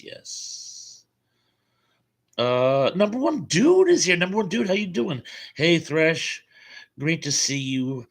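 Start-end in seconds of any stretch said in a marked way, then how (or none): 2.9-8.1 high, loud, delighted hello; excited greeting. Real, not acted. The host greets Number One Dude joining the stream, excited and high. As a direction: cheer the viewer's arrival.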